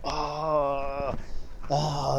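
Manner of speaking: drawn-out mock wail; long moaning "oh" of pretend sobbing; imitated bawling. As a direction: imitate a man breaking down, volume held back. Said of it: "he just began to bawl".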